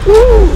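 high, loud woo; excited whoop. Real, not acted. Driver getting through a spot, loud whoop.

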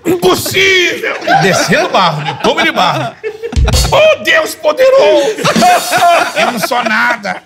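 pregação gritada, bem mais aguda e arrastada; voz do apóstolo Valdemiro. Retold or imitated. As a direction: clame a Deus como pastor inflamado no púlpito. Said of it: "escutando a voz do apóstolo". (o falante imitando o apóstolo no banheiro, pregação aos gritos)

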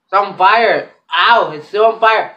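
loud and pained from the spice; mouth burning from spicy food. Real, not acted. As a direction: gasp it out with a burning tongue. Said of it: "I can't feel my mouth".

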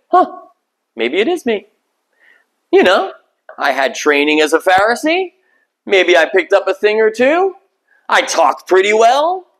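mock smug. Paul tempted by pride, acted.

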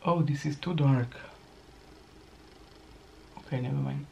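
talking while lining lips; applying lip liner. Real, not acted. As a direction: lips half-held, lining them. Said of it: "I can't really speak when I'm applying lip liner".

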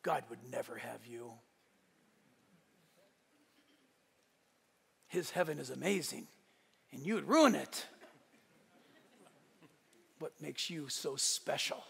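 a lightly voiced accusing Satan, low and hushed; sly whisper of Satan. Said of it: "the next voice you hear is".

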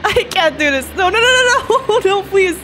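high, loud, half-laughing panic; panicked pleading. Real, not acted. Player who can't do this begging no, panicked pleading. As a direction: beg in a rising, tearful panic.

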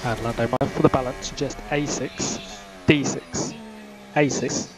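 crackly team radio transmission; race car radio. Acted. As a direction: talk like over F1 pit radio.

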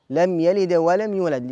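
"لم يلد ولم يولد" recited slowly with a light bounce on each د; minor qalqala. Shown as a demonstration. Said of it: "هذه سريعة تكون صغرى".

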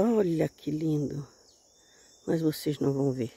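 quietly filming a bird in the bushes, hushed. Real, not acted. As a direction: keep it hushed so you don't scare the bird.

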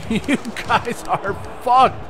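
drawn-out, slow gloat; slow gloating taunt. Real, not acted. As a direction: stretch every word to taunt. Gloating at opponents.

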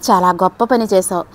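annoyed, angry. Acted. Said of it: "విసుక్కున్నాను కోపంగా".

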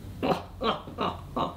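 weasel's chuckle. Acted. Weasel laughs at the story.

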